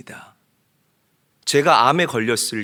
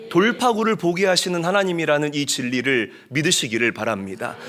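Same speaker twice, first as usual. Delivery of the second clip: ordinary talk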